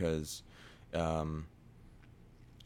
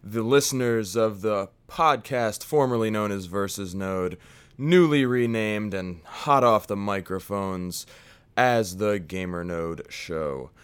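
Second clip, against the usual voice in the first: high, loud hammy announcer voice; fake voice; 5 semitones higher, 8 dB louder than usual. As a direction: put on a big showman host voice. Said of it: "put on this fake voice for you".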